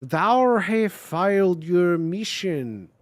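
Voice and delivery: a hint of Australian Shakespearean villain; clumsy Australian accent with old English words. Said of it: "speak Australian in an old English accent".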